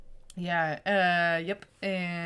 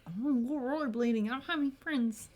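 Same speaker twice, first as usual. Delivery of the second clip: higher, soft, quick little voice; imitated younger self, pitched up; mock eager kid; 5 semitones higher, 4 dB quieter, faster than usual. Teller as friendless kid wanting to join, mock eager.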